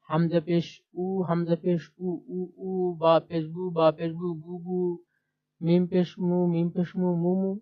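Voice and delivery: even spelling chant, each unit twice, then উ, উ or বু, বু joined; doubled-syllable drill. Shown as a demonstration. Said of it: "পেশ দিয়ে দুই হরফের উচ্চারণ কেমন হয়?".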